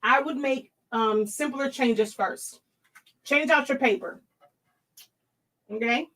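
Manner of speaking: talking around an ice cube; words round a melting ice cube; ice in mouth. Real, not acted. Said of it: "put a piece of ice in my mouth".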